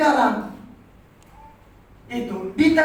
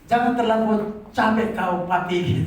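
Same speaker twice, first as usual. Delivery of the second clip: caring wife; 5 semitones lower than usual. Retold or imitated. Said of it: "Kayak Mama Ruth ya".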